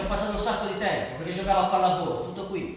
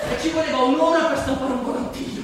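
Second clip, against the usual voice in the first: laughing while recalling; 7 semitones higher, 7 dB louder than usual. Real, not acted. Laughing at old memory.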